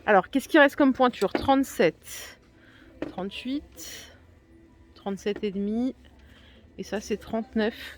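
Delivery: drowsy after the dentist; groggy from the dentist. Real, not acted. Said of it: "je pionce un peu, mais je sors de chez le dentiste".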